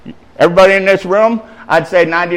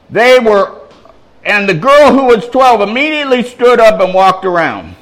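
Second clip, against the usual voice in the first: raised, higher preaching read; scripture reading; 6 semitones higher, 5 dB louder than usual. A narrator's reading. Preacher rereading the girl's rising, declaiming. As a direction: declaim the miracle with a lifted voice. Reads scripture aloud to congregation.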